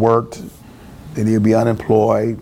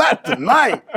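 high-pitched mock anguish; comic protest; 11 semitones higher, slower than usual. Son who waited all year for date, comic high protest. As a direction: wail it lightly for laughs, pitched way up.

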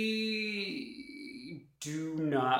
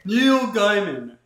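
Neil Gaiman said slow and loud, Neil stressed; clear correction; 6 semitones higher, 9 dB louder, slower than usual. Shown as a demonstration. Correcting a misheard name, slow and emphatic. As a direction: spell out the right name, leaning on Neil. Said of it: "Did you say the name of a singer?".

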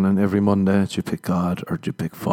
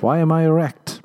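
higher, louder alarmed question; bewildered; 8 semitones higher, 4 dB louder than usual. Retold or imitated. Patient baffled mid-colonic, hammed-up alarmed question. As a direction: blurt it out in mock alarm.

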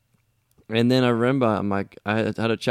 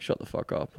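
whispered retort; 4 dB quieter than usual. Retold or imitated. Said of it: "I'm like".

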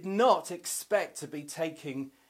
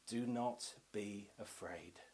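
soft, low and measured reassurance; hushed retold whisper; 6 semitones lower, 10 dB quieter than usual. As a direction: drop to a hush, as if whispering. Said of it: "God whispers to Joseph".

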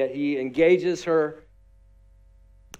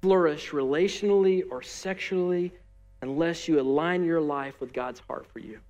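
with love. Real, not acted. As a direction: say it gently with love. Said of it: "hear me say this with love in my voice".

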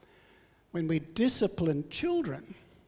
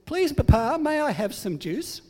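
put-on pleading child; 6 semitones higher, 3 dB louder than usual. Child asks nicely.

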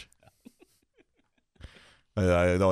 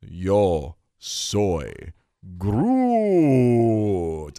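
Yo soy Groot in mock Spanish with a rolled R; 3 semitones lower, much slower than usual. Asked by a friend to say it in Spanish, mock Spanish accent. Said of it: "Now say it in Espanol".

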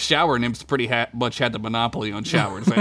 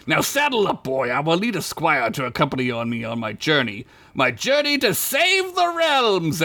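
grandiose elf; 3 semitones higher than usual. Acted. Elf grandly announcing quest.

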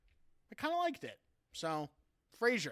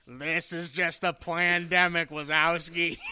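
Roz voice; 5 dB louder, slower than usual. Retold or imitated. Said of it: "she's like".

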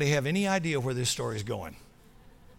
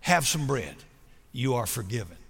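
gentle forgiveness; 5 semitones lower than usual. Retold or imitated. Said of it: "He offered a gentle smile".

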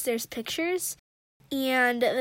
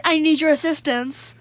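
shouted; 2 semitones higher, 7 dB louder than usual. Acted. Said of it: "he shouted".

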